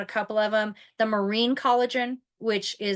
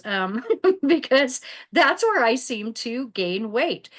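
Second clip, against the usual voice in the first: a bit louder, slower, laughing through it; 3 semitones higher, 4 dB louder, slower than usual. Real, not acted. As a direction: laugh it off, slightly embarrassed. Embarrassed remark about her boobs.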